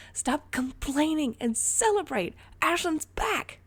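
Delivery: high, loud and slow joyful cheer. A narrator's reading. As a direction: cheer it out with delight. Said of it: "cheered Ray".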